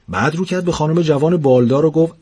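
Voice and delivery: lively storyteller reading a funny tale; story narration. A narrator's reading. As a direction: read it like a comic bedtime story. Narrator reads humorous story aloud. (روایت داستان طنز)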